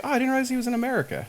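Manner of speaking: surprised. Retold or imitated. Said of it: "They're like".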